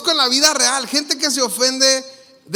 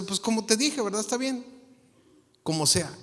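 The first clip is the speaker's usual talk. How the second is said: understated contented reply, trailing softer; easygoing contentment; 6 dB quieter than usual. Acted. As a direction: let it go casually, getting softer. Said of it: "dice, bien contento". (contento y despreocupado)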